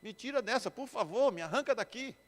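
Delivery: put-on whiny begging; mock tearful pleading. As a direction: plead to get out, lightly acting tearful. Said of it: "e fica chorando".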